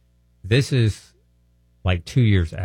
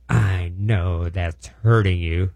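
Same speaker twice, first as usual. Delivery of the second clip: slow, drawn-out worried insistence; upset nurse; much slower than usual. Retold or imitated. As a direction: plead it slowly like a worried nurse. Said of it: "she looks at me real upset and says".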